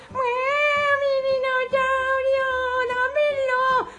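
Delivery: high drawn-out wail; wailing child. Acted. George wailing for his dinosaur, high and drawn out. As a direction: cry out for the toy.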